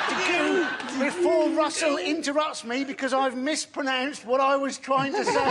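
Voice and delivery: laughing shout. Acted. Exasperated comic complaint, shouted.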